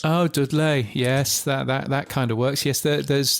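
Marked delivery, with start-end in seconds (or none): 0.0-0.9 trying out a Brummie accent; mock Brummie; Birmingham accent. Shown as a demonstration. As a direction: echo it with a light Birmingham accent. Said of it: "Birmingham accent is to say Dudley".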